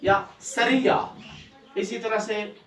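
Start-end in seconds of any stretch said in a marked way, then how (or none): 0.4-1.0 सरिया with a pressed, doubled y; pressed pronunciation. Shown as a demonstration. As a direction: lean on the य of सरिया, sa-riy-ya. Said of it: "थोड़ा हम दबाव डालेंगे".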